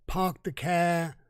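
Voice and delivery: slow, lightly imitated Boston accent, dropped r's. Quoting the masked YouTube hitman, a mild Boston accent. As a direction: drag out "park the car" in a mild Boston accent. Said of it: "That's a, that's a Boston accent".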